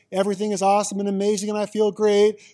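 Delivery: fast, bright, happy gush; cheerful gush. Shown as a demonstration. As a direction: rattle off pure happiness. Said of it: "it goes from this".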